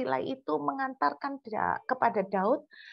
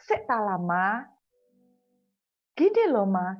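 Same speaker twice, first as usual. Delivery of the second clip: put-on impatient Surabaya child. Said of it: "Gitu kalau orang Surabaya bilang".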